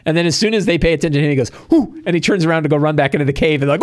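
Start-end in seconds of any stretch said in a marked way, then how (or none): 1.7-2.0 high imitated gnoll yelp; startled whoop. Gnoll noticed by the party, imitated startled whoop. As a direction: let out a high mock startled "whoo".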